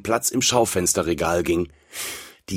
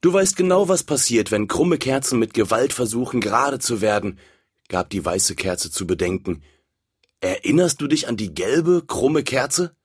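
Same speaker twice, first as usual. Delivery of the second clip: lightly voiced wise candle; 3 semitones higher than usual. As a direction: caution the bully earnestly. White candle warns the red one.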